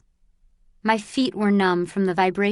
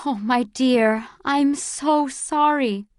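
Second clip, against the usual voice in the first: tender consolation; 5 semitones higher, slower than usual. Acted. Mother consoles grieving Ona.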